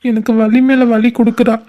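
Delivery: upset, on the verge of crying; tearful. Acted. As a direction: let the hurt weep through the words. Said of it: "ஏன்டா அலற?".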